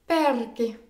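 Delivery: "Perché" stressed on the last syllable, closed é; stressed closed final E. Shown as a demonstration. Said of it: "un E avec une prononciation fermée". (« Perché » accentué sur un é final fermé)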